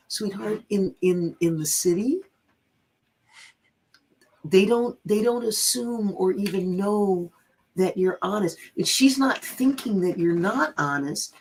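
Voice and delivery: retold gentle, careful explanation with halting starts; mildly coaxing, measured reassurance; patient explaining. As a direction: explain it kindly, picking the words. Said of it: "I was saying it just like this".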